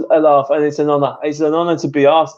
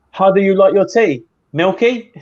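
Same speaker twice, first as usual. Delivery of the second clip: hammed-up British accent, higher and louder; strong British accent; 5 semitones higher, 4 dB louder than usual. Shown as a demonstration. Guest performs tea skit line on request, strong British accent. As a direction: lay on a thick British accent. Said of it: "strong British accent, I'm happy to do that".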